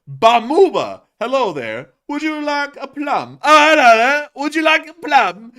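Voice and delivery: high, loud goofy cartoon voice, slowed on the plum; silly cartoon voice. Host reads a viewer's joke chat in a high goofy cartoon voice. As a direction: ham it up like a puppet offering fruit.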